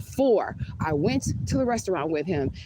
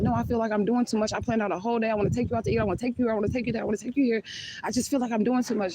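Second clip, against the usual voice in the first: quoting the date; 5 semitones higher, faster than usual. Retold or imitated. Quoting date who overdoes plans.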